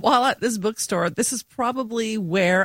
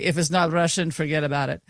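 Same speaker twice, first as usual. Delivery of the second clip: a light imitation of a Kansas accent, lower; John Senior's Kansas accent; 4 semitones lower, faster than usual. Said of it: "that's how he speaks".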